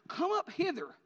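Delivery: high, loud heavenly summons; great voice from heaven. Acted. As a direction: boom it out like a voice from heaven. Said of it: "they heard a great voice from heaven".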